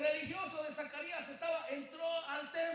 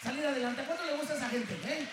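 loud preacher call; rising fervent sermon shout; preaching shout; 8 dB louder, faster than usual. Real, not acted. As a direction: throw it at the crowd at full force. Preacher calls out to congregation.

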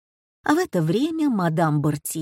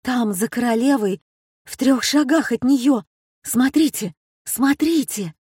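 excited calling; 5 semitones higher, 3 dB louder than usual. A narrator's reading. Excited pointing at TV.

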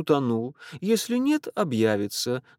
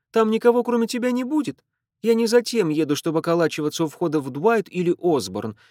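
fast, loud, higher indignant rant; sister's tirade; 8 semitones higher, 4 dB louder, faster than usual. A narrator's reading. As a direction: rattle it off at him. (сестра тараторит возмущённо, громче)

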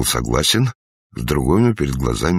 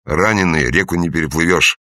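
shouting; 3 semitones higher, 4 dB louder than usual. A narrator's reading. Shouting at fleeing gunman.

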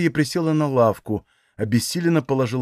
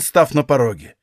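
ordinary delivery

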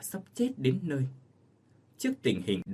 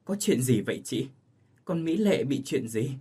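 alarmed. Acted. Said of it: "bà Cai Tổng hốt hoảng".

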